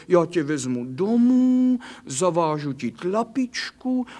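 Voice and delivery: coaxing, pet-name cooing to a hurt puppy; tender comforting. Acted. Kitty coaxes the injured doggy home, tenderly cooing. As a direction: soothe the little dog like a mother.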